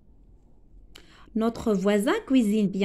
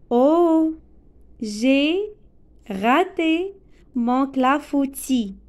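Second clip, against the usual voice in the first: dismayed exclamation; much slower than usual. Shown as a demonstration. Teacher acting out a baking failure, dismayed exclamation. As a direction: cry out over the ruined clafoutis, slowly. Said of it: "C'est une phrase exclamative".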